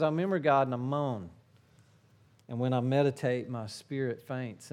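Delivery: moaning lament. Shown as a demonstration. Actual psalm, contrasted.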